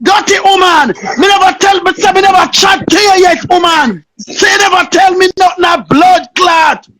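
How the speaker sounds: a raging rant at the woman; real furious tirade; furious cursing shout. Real, not acted.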